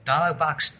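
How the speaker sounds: "ダーラーバックス" run together like fast American English; American-English pronunciation. Retold or imitated. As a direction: imitate how "dialog box" sounded as "ダーラーバックス". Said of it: "一箇所分かんないのがあって".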